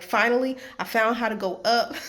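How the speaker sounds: loud, triumphant relief; finally found the way; excited relief. Retold or imitated. Finds the ramp at last.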